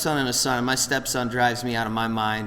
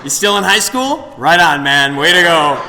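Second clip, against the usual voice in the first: mock cheer; 4 semitones higher, 9 dB louder than usual. Quoting himself praising stepson.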